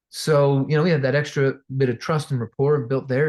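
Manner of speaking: ordinary delivery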